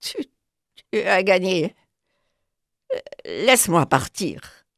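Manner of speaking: a hint of a frightened beg; mildly faltering, begging to be let go; trembling plea. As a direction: beaten panther pleading with the dog. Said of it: "Sa voix tremblante supplia".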